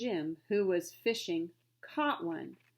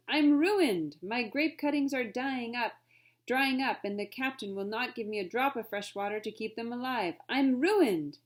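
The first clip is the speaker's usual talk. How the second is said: lamenting Frenchman; 3 semitones higher, 4 dB louder than usual. Acted. Frenchman laments dying vines.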